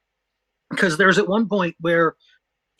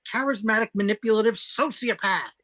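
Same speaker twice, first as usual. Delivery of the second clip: higher-pitched theatrical list of insults; exasperated insults; 4 semitones higher than usual. Acted. Listing Mud's faults for Chapel, exasperated. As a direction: pile up the charges with mock outrage.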